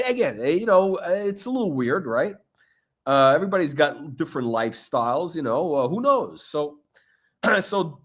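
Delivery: ordinary talk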